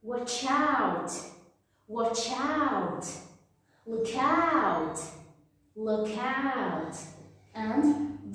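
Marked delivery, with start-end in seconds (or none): 0.0-7.0 "Watch out", "look out" with both words stressed and weight on "out"; warning intonation. Shown as a demonstration. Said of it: "all the words in warning are stressed".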